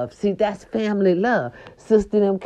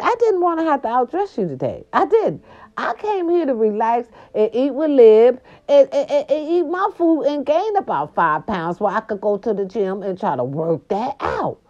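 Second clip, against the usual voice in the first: sassy; 5 semitones higher than usual. Retold or imitated. Sassing sister about outdressing.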